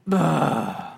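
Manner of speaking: mock childish "ugh" groan; imitated reluctant grunt; grumbling groan. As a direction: groan like a kid told to do chores. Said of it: "you would be like".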